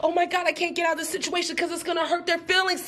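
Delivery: mock panicked plea. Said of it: "you find yourself saying".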